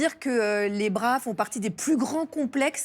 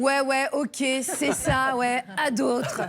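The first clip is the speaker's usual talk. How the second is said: sarcastic; 3 semitones higher, much slower than usual. Real, not acted. Sarcastic disbelief, slow.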